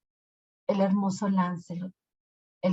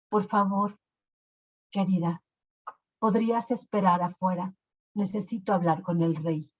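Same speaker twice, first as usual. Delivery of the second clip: gentle, kindly request. Acted. Lancelot politely asking the witch to step out, gentle.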